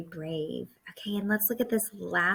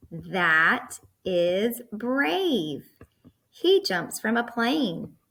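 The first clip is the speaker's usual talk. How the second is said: very slow and louder, "brave" drawn out; excited; 2 semitones higher, 4 dB louder, much slower than usual. Shown as a demonstration. Teacher leading kids in choral reading, excited. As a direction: lead the class in a loud, drawn-out cheer. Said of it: "So we say it very excited".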